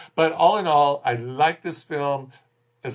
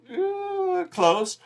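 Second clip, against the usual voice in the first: wavering noise. Shown as a demonstration. Mimes a near miss.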